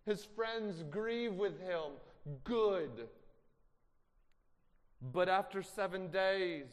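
slow, loud emphatic sermon cadence; preaching. Acted. Preacher urging the congregation on Job's friends. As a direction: drive each phrase home from the pulpit.

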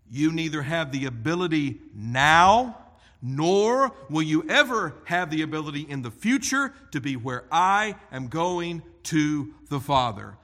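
loud, driving preacher's proclamation; forceful declaration. Acted. Preacher thunders Jesus' verdict.

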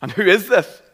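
a mock frightened gasp of a question; panicked. A startled listener frightened by the mystery caller. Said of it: "You might start to think".

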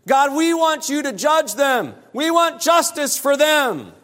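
a lightly voiced congregation crying out for judgment; pleading worshippers. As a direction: plead like the people demanding justice. People pleading for judgment on others.

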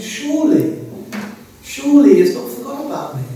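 a hint of a prisoner reassuring himself; Joseph's anxious hope. Imagining Joseph's hopeful thoughts in prison.

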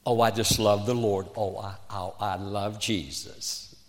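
a light, soft imitation of a syrupy pious girl; lightly mock the sugary churchgoer. Preacher mocking girls' put-on piety, softly syrupy. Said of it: "you walk like this and you say".

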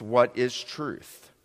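slow, drawn-out skeptical question; modern skeptic. Acted. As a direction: let it hang, a shrug in the voice. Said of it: "in a very twenty twenty-two fashion".

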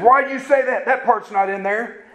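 high-pitched, mild mock indignation; retold anger. Man disputing the Bible verse, imitated high-pitched mild anger. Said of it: "he literally got mad at me and said".

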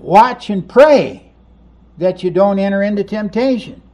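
grave, deliberate instruction; solemn command. Acted. Jesus commanding in the garden.

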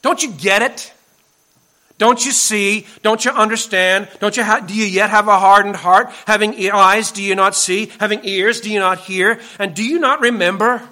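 exasperated pleading questions; urgent, exasperated Jesus; frustrated. Acted. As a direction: press each question like a frustrated teacher. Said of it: "I almost sense that Jesus was getting frustrated".

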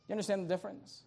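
ordinary delivery

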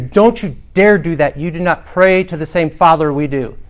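retold indignant telling-off; imitated anger. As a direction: scold like an offended in-law. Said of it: "she said angrily".

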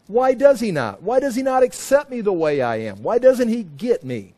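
mock lament. People asking why God won't accept them, mock lament. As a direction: plead like a hurt, rejected worshipper. Acted complaint of the rejected worshippers.

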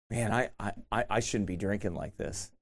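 mock scared. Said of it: "you get scared".

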